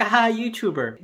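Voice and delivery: mock laugh. Teacher laughing off the YouTuber answer, mock laugh. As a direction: pretend to laugh it off. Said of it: "laughed and be like".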